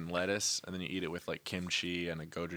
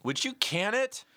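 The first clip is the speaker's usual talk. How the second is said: high-pitched, drawn-out caricature; comic impression voice; 12 semitones higher, 4 dB louder, slower than usual. Shown as a demonstration. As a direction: squeal it slowly as a silly character, rising at the end. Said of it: "I can kinda do impressions of people".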